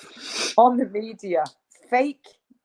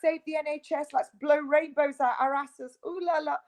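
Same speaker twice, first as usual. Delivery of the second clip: mocking vaccinators; 5 semitones higher than usual. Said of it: "So when they go".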